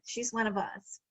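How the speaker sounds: softly repeating the phrase to savor it; quiet, reflective echo of the coach's words; quiet musing repeat. Shown as a demonstration. A speaker to her audience, savoring the coach's phrase, quietly. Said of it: "interesting way of phrasing it".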